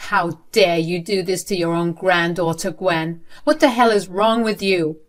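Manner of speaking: moderately loud accusing voice; angry shout. Acted. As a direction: scold her, heating up toward the end. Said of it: "I shouted at Gwen and said".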